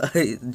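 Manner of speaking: short light chuckle; brief mock chuckle before speaking; acted chuckle. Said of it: "Jiraiya kinda chuckles and says".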